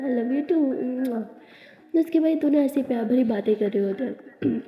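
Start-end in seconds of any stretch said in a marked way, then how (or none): 0.0-1.2 tender. Acted. Abira answering lovingly.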